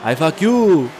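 indignant mock French accent; French person's retort. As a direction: play an affronted French stranger, accent on.

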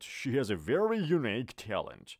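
She has a very unique talent, slow with very stressed; teacher's second slowed-down take; slow model sentence. Shown as a demonstration. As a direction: repeat it slowly, leaning on very.

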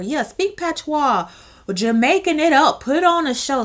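big, showy mock coaching; hyped-up egging on. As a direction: play a producer pumping up the performer. Acting producers egging Miss Cleo on.

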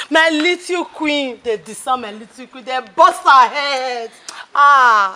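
slow grieving lament; mournful lament. Acted. Mother mourning her injured daughter, slow lament. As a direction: mourn each word slowly.

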